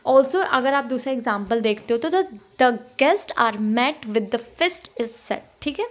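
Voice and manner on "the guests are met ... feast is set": "the guests are met with the fist is set" slow, stressing guests, met, fist, set; regular iambic beat. Shown as a demonstration. Teacher reading a meter example, "the guests are met with the fist is set" in even beats. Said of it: "ये भी regular interval पे आ रहा है".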